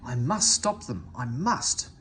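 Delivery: strained, effortful voice; straining effort. A narrator's reading. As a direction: push the words out through great effort. Duck straining against trucks.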